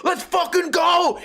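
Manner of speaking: high, drawn-out battle cry; imitated hyped-up shout; fired-up fighter yell. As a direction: yell it like a fighter who just got hit. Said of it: "gets hit in the face and goes".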